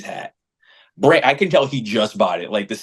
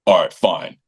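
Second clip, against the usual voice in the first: low, resigned imitation; retold grudging surrender; 4 semitones lower than usual. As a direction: give in grudgingly, pitched down. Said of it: "he kinda just shut off".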